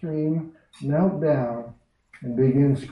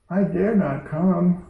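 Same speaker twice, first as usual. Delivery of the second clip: put-on fearful girl; 5 semitones higher, slower than usual. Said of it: "said Jill".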